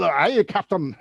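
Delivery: light Scottish brogue; Scottish accent. Acted. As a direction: answer the captain in a Scottish accent. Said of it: "he would do it in a Scottish accent".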